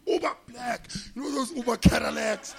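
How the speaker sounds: high, loud, impressed; excited retelling. Retold or imitated. Manager's offer of a luxury car, excited retelling. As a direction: announce it like a big prize.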